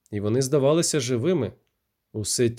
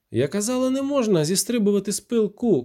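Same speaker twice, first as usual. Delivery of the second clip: much higher scolding, казала rising; Irma, furious at the corporal, scolds with казала rising high; 7 semitones higher than usual. A narrator's reading. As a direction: reproach him sharply, казала lifted.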